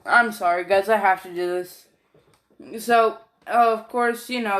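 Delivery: talking through hiccups; hiccuping between words. Real, not acted. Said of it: "Sorry, I got the hiccups all of a sudden".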